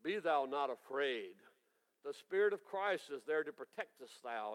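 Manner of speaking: a mock voice of God; Charlton Heston voice. Dad answers his son in mock Heston solemnity. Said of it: "in that Charlton Heston voice".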